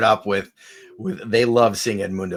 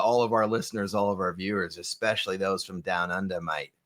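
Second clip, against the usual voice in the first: softer, low mock Aussie sign-off; rusty Australian accent; 3 semitones lower, 6 dB quieter than usual. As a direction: slip into a half-hearted Australian accent. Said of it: "haven't done the Australian accent in a while".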